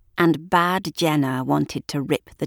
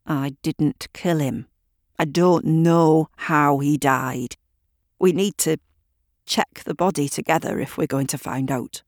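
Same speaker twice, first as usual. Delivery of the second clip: through gritted teeth. Acted. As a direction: hold the anger back behind clenched teeth. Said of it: "through gritted teeth".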